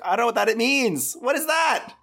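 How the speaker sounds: high, fast incredulous yelp; baffled outburst. Retold or imitated. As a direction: blurt it out in total disbelief. Reacting to a weird phrase.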